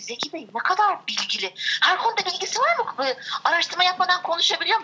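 high, fast teasing cousin voice; quoting cousin. Retold or imitated. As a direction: mimic her quick teasing questions. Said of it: "Diyor ki".

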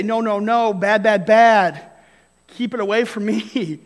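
prissy no-no-no, recoiling from the world; mock finger-wagging scold. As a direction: shoo it away like a disgusted church lady. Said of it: "wag the finger at the world and say".

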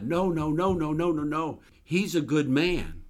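high, loud, desperate begging; retold anguished plea, rising loud then easing; pleading shout. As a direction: cry out to God, pleading for the man you love. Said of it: "I began to shout to God".

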